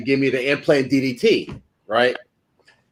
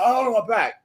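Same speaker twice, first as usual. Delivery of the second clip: retold pain; 8 semitones higher, 3 dB quieter than usual. Acts out himself hurt to colleague.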